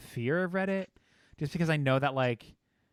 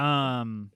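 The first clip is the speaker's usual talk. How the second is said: tongue click. Real, not acted. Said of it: "like, the tongue click".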